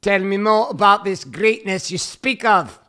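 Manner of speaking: slow pompous oracle, half joking; mock wise sage. Husband teasing wife as a mock sage, slow pompous voice.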